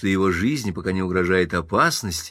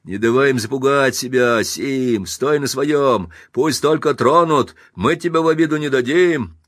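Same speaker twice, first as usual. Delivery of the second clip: feisty Irishman; 4 semitones higher, 4 dB louder than usual. Acted. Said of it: "задиристый ирландец".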